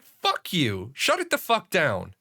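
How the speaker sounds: retold angry comeback with swooping pitch; angry retort. Customer to rude man who fingered his face, angry retort. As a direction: fire it back like squaring up to him.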